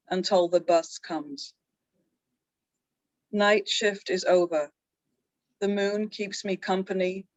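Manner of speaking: slow, measured recital with a pause after each line; haiku reading. Acted. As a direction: read the haiku unhurriedly, line by line. Reads haiku twice each.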